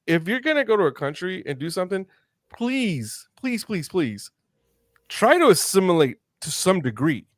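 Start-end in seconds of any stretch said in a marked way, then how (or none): 2.5-7.3 earnest pleading. Real, not acted. Pleading with travelers abroad.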